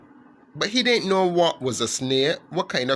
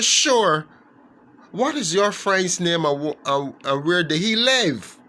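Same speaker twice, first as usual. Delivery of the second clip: cheerful father; 3 semitones higher, 3 dB louder than usual. Acted. Father frog answers son.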